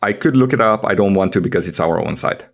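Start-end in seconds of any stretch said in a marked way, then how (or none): none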